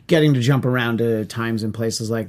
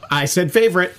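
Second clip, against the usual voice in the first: favorite said higher with a falling tune; stress on favorite; 5 semitones higher than usual. Real, not acted. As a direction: lean on favorite to correct them. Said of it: "Well, no".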